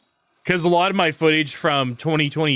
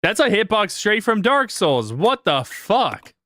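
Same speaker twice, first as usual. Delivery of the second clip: higher, slow, exasperated rant; raging gamer; 6 semitones higher than usual. Real, not acted. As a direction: vent at the unfair game. Ranting after unfair boss hit.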